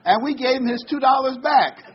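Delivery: laughing loud and high through the punchline; can't hold back the laugh as you deliver it. Real, not acted. Preacher cracks up telling the congregation the mule joke, laughing.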